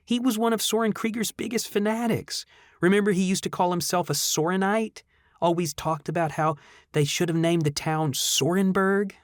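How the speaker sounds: put-on chatty friend remembering an old neighbour; young woman voice. Hannah voiced higher.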